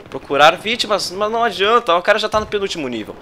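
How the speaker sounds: ordinary talk, nothing marked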